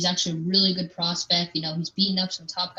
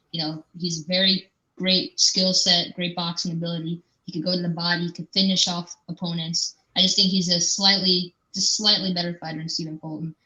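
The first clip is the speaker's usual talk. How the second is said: muffled. Real, not acted. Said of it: "like, a bit muffled".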